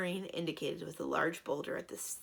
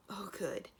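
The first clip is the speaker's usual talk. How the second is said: relieved; 2 semitones higher, 5 dB quieter than usual. Acted. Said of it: "in tones of considerable relief".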